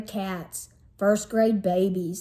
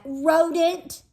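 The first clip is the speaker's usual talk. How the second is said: higher parting yell; yelling back; 6 semitones higher than usual. Acted. Sister yelling insult from the stairs. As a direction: fling it back over your shoulder. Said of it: "she yelled back".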